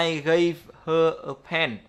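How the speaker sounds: slow, every sound said apart, "gave her a pen" with H kept; English teacher says "I gave her a pen" slowly, each sound clear; careful English demo. Shown as a demonstration. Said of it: "chúng ta sẽ thấy là".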